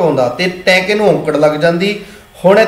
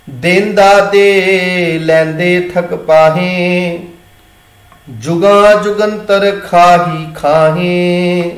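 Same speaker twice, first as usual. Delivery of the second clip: slow scripture recitation; slower than usual. Shown as a demonstration. Reciting scripture line slowly.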